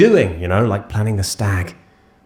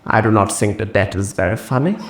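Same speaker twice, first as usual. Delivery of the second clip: judging voice. Retold or imitated. Judgmental voice continues.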